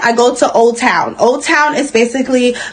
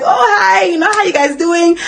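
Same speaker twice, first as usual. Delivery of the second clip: put-on Brazilian accent; 4 semitones higher than usual. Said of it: "Her voice changed up a little bit".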